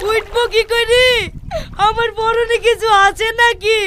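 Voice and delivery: tearful, hammed-up protest; crying. Stuck in the water with nothing on, crying. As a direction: whine through mock tears. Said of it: "এইভাবে পানিতে দাঁড়িয়ে দাঁড়িয়ে কাঁদছিস".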